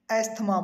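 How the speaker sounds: "asthma" as es-tha-maa, th sounded; common mispronunciation. Shown as a demonstration. Teacher showing how many people say it, mispronounced. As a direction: say "asthma" with a hard Indian th, es-thmaa. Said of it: "बहुत सारे लोग इसे बोलते हैं".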